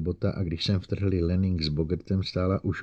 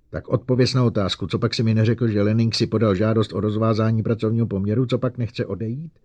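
angry demand; 3 semitones higher, 4 dB louder than usual. Acted. Bogert demands answer.

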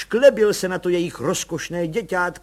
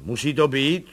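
grumbling; 7 semitones lower, slower than usual. A narrator's reading. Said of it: "bručel pan Bartošek".

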